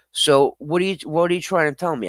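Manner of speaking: put-on disbelief; mock indignation. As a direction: act affronted as a joke. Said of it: "No, I'm just playing".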